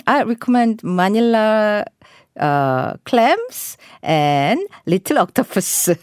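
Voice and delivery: very slow, clear sentence for learners; slow model reading. Shown as a demonstration. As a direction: read it slowly word by word. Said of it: "문장으로 만들어 볼게요". (천천히 또박또박 읽기)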